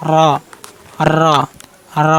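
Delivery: heavy rolled র, repeated separately; full-mouthed র with a short tongue-tip trill; curled-tongue letter demo. Shown as a demonstration. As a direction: say র thick, tongue tip bent to the palate. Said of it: "একটু আগাটা একটু বেঁকে উচ্চারণ করবেন".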